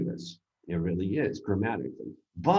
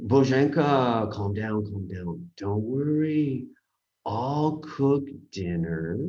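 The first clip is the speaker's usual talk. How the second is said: reassuring friend; much slower than usual. Retold or imitated.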